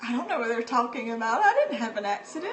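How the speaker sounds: quick, lightly voiced child protest; protesting five-year-old. Five-year-old denying she had an accident, quick mock protest. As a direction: rattle it off like a baffled little kid. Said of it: "I was just like".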